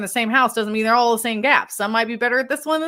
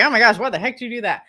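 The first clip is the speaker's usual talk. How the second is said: mock exasperation; 4 dB louder, faster than usual. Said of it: "we're not trying to insult or be like".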